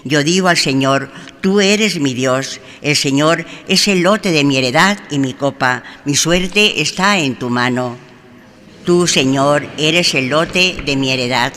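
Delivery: normal talking voice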